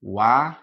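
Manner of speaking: "Wa" stressed and loud, the first syllable of "wanna". Shown as a demonstration. Teacher marking where the stress falls in "wanna", punched. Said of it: "This is how we pronounce it".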